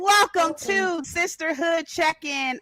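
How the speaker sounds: high, drawn-out welcome, loud at first; big host's greeting, starting high and loud; excited show opening. Real, not acted. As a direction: belt out the welcome, then settle.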